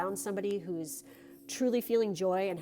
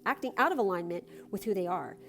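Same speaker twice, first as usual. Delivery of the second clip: card reading; 3 semitones higher than usual. Acted. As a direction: read it like a gentle blessing. Reads a card's message.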